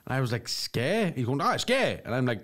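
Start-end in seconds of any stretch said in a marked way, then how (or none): 0.5-1.1 puzzled echo. Retold or imitated. He echoes the shopkeeper, puzzled. 1.4-2.0 put-on shopkeeper repeats the word Sky, Donegal accent; mock Donegal accent, pitched up. Imitates the shopkeeper.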